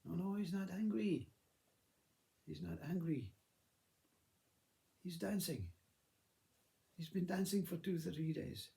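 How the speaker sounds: high-pitched, matter-of-fact denial; insistent correction. Acted. Mother telling children father is dancing, insistently correcting.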